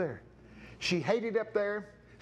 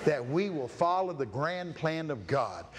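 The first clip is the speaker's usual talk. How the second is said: prayer. Acted. Preacher praying over the congregation, earnest. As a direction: pray it sincerely.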